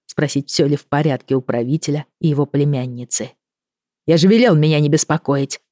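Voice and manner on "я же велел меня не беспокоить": barked order. Acted. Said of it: "рявкнула Хедвика".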